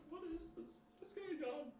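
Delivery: high, laughing disbelief. Real, not acted. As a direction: giggle through the question.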